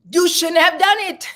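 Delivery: high, loud laughing; quoting him through laughter; laughing quote. Retold or imitated. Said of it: "but he just said".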